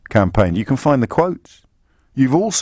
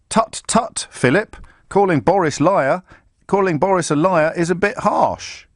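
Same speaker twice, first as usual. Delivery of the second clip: higher, sing-song mocking tut-tut; mock pompous quote; 6 semitones higher than usual. Vlogger mocking the magazine owner's scolding, higher and sing-song. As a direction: lampoon the smug editor.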